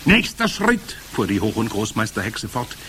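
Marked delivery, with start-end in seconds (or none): 0.0-1.0 high, loud witch voice; commanding Grand High Witch. A narrator's reading. Witch leader starting to explain her recipe, commanding. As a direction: open grandly, pitched way up.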